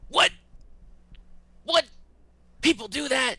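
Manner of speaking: high, loud disbelieving squeak; astonished Judge. Retold or imitated. Christopher Judge hearing about furries, loud and high in shock. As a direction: play it as total, delighted shock.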